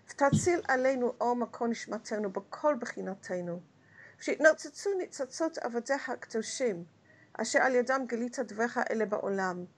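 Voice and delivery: fast, murmured Hebrew prayer; rapid prayer recitation. Acted. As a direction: rattle through the prayer like daily davening.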